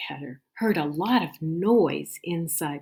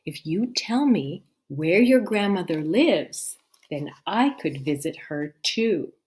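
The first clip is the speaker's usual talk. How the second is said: sly wolf; 5 dB louder than usual. Acted. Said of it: "The wolf said".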